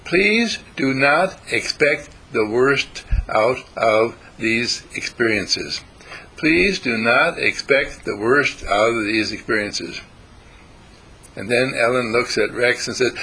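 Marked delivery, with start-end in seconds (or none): 0.1-10.0 slow, deliberate plea; pleading slowly. Retold or imitated. Teacher pleading with students, slow and deliberate. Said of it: "And I'll say".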